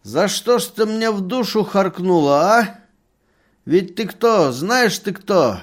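put-on loud, high furious drunken yelling; angry shout. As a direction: scream at the betrayer, stamping. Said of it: "стал кричать, топая ногами". (яростный крик, громко и высоко)

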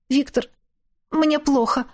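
high, weak sick plea; nauseous plea. A narrator's reading. Carsick captive woman pleading with Viktor.

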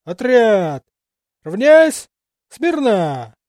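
sharp, loud drill barking; barked command. Acted. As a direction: bark it like a parade sergeant. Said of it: "коротко рявкнул".

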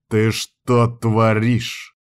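slow, mild growl; a restrained angry snarl. Acted. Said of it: "прорычал я". (сдержанно прорычать, медленно)

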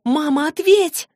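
high, loud and slow plea; girl calls into a dead phone; desperate cry. Acted. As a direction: beg her mother to answer.

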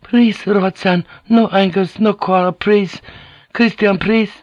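put-on high, slow, pleading girl's voice; a young girl frightened, pleading slowly between two angry men; frightened Japanese girl. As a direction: beg them both to stop fighting, high and slow. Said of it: "the frightened Japanese girl".

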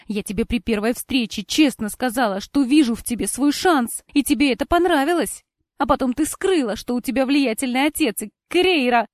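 heated accusation. A narrator's reading. Heroine accuses Cora in quarrel.

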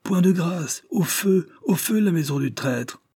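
high, shrill-pitched furious cries; women howling. A narrator's reading. Angry women urging the mob to burn the house, howling. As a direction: howl for the fire. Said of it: "les femmes continuaient de hurler".

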